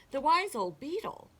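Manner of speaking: mildly shocked animals; gasped question. A narrator's reading. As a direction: echo it in alarm with a rise. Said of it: "gasped the animals".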